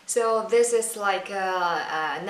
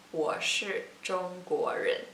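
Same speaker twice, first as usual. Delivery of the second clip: slow model answer; slower than usual. Shown as a demonstration. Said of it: "I would say".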